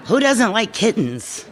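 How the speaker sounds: put-on retelling her childhood thought about kittens with a laugh; innocent child. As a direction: play the puzzled little girl. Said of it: "And I would think".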